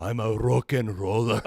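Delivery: put-on actor accent, amused; Gerard Butler. Co-host offering another film title, mock actor accent. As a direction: lay on a bad movie-star accent. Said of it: "What are some other Gerard?".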